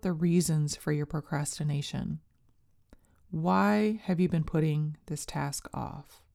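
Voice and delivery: calm, unhurried meditation guide voice; guided meditation. Acted. Leads a meditation script.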